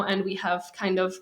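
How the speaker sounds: hesitant, searching for the word; translating in head. Real, not acted. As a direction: grope for the missing English word. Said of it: "sorry, I don't know the word in English".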